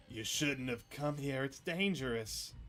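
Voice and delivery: slow, grave warning; ominous warning. Acted. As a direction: drag out each word like a threat. Ominous NPC Stella warning.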